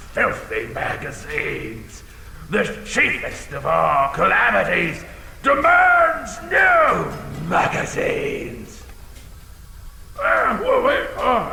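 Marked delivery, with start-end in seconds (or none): 2.5-8.8 decree it like a king; mock royal decree. Dragon mock-grand decree.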